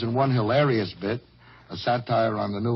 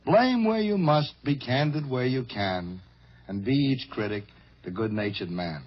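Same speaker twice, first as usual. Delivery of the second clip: poem recitation. Retold or imitated. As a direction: savor each line like quoting old poetry. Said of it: "Part of it went like this".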